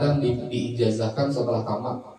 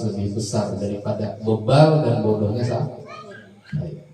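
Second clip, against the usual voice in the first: tearful pleading prayer; 4 semitones higher than usual. Retold or imitated. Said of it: "Sampai menangis minta dengan Allah".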